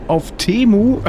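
high, loud laughing punchline. Real, not acted. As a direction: blurt it out through laughter.

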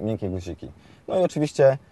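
ordinary delivery

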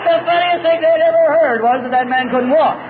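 high-pitched, laughter breaking in; amused, half laughing. Real, not acted. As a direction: tell it through a chuckle. Joking about AA meeting laughter.

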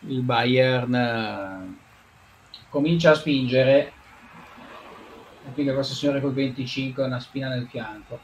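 lively Italian football commentary; play-by-play commentary. Acted. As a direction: call the match live. Mock live match commentary.

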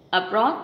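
abroad with -BROAD stressed and rising; stress on second syllable. Shown as a demonstration. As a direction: lean on the last syllable of "abroad". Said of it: "đều có trọng âm một. Trừ".

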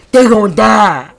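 slow loud emphatic threat; loud cocky boast. Real, not acted. Repeating the boast louder.

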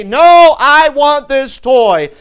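put-on high, loud, drawn-out child's whine; loud bratty child demanding the toy; whiny little girl. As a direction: wail it like a spoiled little girl. Girl tantrum in store.

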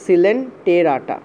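সিলেন্টেরাটা said slowly with an s sound; drawn-out সিলেন্টেরাটা, clear s at the start; teacher repeating সিলেন্টেরাটা slowly to correct it; careful pronunciation. Shown as a demonstration. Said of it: "এইভাবে উচ্চারণ করা হয়".

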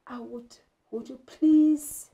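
put-on child politely begging mom for money; pleading. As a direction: beg nicely, drawing it out. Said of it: "your tone is full of, uh, pleading".

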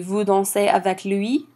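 statement word order, rising on "lui"; question intonation. Shown as a demonstration. Teacher showing an intonation question, rise at "lui". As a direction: ask it by lifting the voice on "lui". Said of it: "with intonation you add it at the end".

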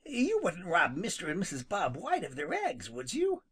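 high dismayed cry. Acted. Rabbit crying out at Jimmy, shocked and high. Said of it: "cried Peter".

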